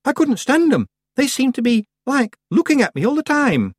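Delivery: put-on teenage girl voice. A narrator's reading. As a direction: shudder at the memory. Lucy voiced in story.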